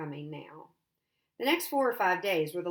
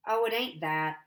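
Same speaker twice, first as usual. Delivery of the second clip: mouth full; 3 dB louder than usual. Acted. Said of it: "between bites of chocolate".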